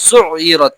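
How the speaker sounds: "সুইয়িরাত" with a throat-made ain replacing the y glide. Shown as a demonstration. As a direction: bring the middle sound of "সুইয়িরাত" from inside the throat. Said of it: "আইন গলার ভিতর থেকে".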